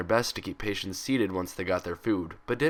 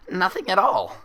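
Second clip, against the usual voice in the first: stifled laughter; 10 semitones higher, 6 dB louder than usual. A narrator's reading. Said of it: "stifle her laughter".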